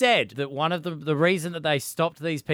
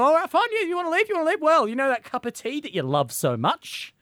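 mock spiteful EU; 5 semitones higher, faster than usual. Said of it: "They're going".

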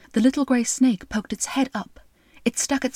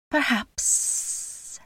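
softer, unvoiced sly hint; snake whisper; 4 semitones higher, 6 dB quieter than usual. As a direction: breathe it out coyly. Snake teasing the king.

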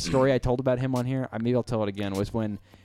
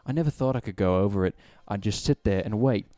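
put-on British BBC announcer accent read; British accent like a BBC presenter. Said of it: "read it like a B B C announcer".

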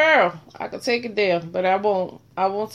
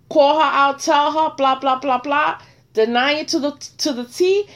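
retold confrontation; 5 semitones higher, 4 dB louder than usual. Retelling confronting in-law.

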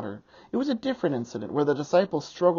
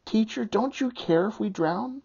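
dark desperate; 7 semitones higher than usual. Acted. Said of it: "Mark's is perhaps the darkest response".

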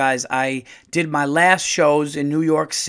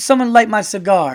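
higher, louder cranky Gumby; imitating Gumby; 6 semitones higher, 7 dB louder than usual. Comedian quoting Gumby demanding respect, higher and louder. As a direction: bellow it like a washed-up claymation star. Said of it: "And he goes".

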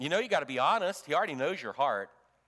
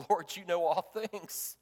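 blubbering; 3 dB quieter than usual. Retold or imitated. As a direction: confess love while on the edge of crying. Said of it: "is just blubbering".

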